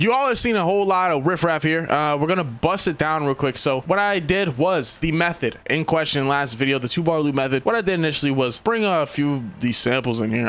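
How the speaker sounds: light commentator voice; slightly announcer-like. Real, not acted. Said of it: "I don't know why I'm talking like that".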